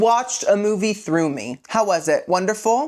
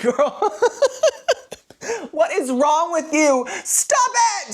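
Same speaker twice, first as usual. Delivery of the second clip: much higher playful squeal; mock scolding; 10 semitones higher, slower than usual. Vlogger teasing viewers who watched it all, playful high squeal. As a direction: tease the viewer with a fake telling-off.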